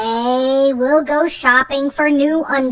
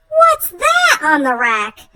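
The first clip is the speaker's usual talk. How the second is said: excited discovery; 10 semitones higher than usual. Acted. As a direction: burst out at spotting them. Spotting the perfect undies.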